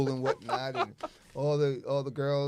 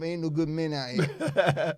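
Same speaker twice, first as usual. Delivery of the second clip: complaining sister; 5 dB louder, slower than usual. Retold or imitated. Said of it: "always hearing sisters".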